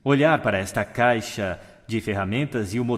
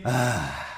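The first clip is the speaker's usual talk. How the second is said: exhaled sigh. Shown as a demonstration. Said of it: "Respiração profunda e inspirem".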